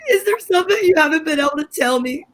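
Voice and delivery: quick, tearful plea. Acted. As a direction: near tears, asking fast. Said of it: "this isn't worth crying over".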